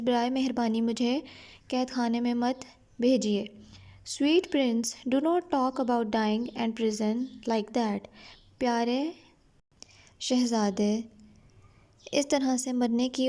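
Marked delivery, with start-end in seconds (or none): 4.2-8.0 slow, careful reading of the English text; slow story reading. A narrator's reading. Teacher reading the English line slowly to her students. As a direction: read each word out slowly for the class.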